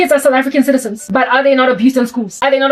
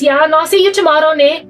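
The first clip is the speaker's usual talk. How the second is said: higher, imitated Coloured South African accent; 4 semitones higher than usual. Showing how Coloured people talk, imitated Coloured South African accent. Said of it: "colored people talk like this".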